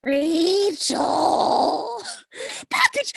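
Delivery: loud urgent call. Acted. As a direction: call out her name sharply. Calling out urgently.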